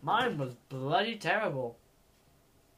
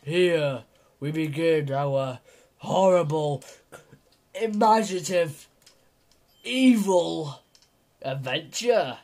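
mock epic narrator; 2 semitones lower, 3 dB louder than usual. Mock epic intro to the adventure.

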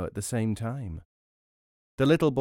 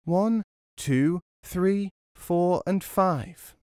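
high mimicking voice; 8 semitones higher, much slower than usual. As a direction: squeak the numbers back cheekily. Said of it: "started to repeat the robber's words".

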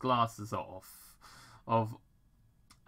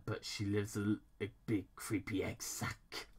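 mockingly sad; 3 semitones higher, 3 dB louder than usual. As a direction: pity him mockingly. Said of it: "mockingly sad".

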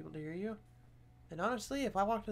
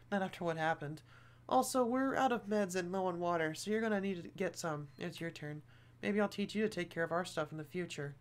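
put-on girl voice; 6 dB louder than usual. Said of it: "that was a really bad trying to do a girl voice".

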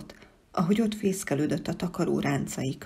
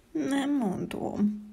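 angry; 8 semitones higher, much slower than usual. A narrator's reading. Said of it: "egészen dühös voltam".

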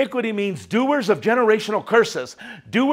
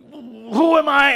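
angry Moses; 6 semitones higher, slower than usual. Retold or imitated. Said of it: "he went like this".

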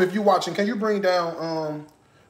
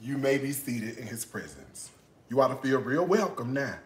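much lower, much softer solemn line; mock preacher; 4 semitones lower, 7 dB quieter than usual. Playing preacher to her audience, hushed. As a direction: intone it like a quiet preacher.

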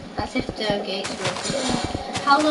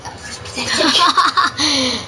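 laughing; 4 semitones higher, 5 dB louder, much slower than usual. Real, not acted. Laughing at own failure.

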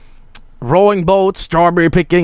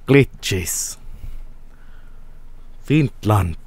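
lower, mock Finnish accent; 6 semitones lower, 8 dB quieter, much slower than usual. Streamer echoing the developer's video, mock Finnish accent. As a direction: echo single words in a put-on Finnish accent. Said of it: "an accent you have to love".

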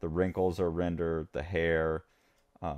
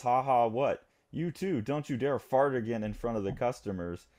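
higher-pitched mock scolding; acted telling-off; 4 semitones higher than usual. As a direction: play the exasperated boss, lightly. Boss telling off his dancers.

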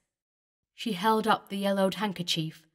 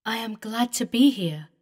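glad ghost; 3 semitones higher, 5 dB louder than usual. Acted. Eleanor tells David her joy.

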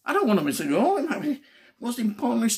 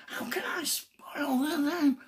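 breathy near-whisper, slow and softer; despairing whisper; 3 semitones higher, 6 dB quieter, slower than usual. Pretend. Man fretting over a ruined match day, whispering. Voicing his own dismay aloud.

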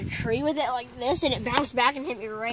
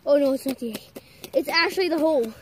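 excited shouting; 3 semitones higher, 11 dB louder than usual. Real, not acted. Kids exploring, find bug.

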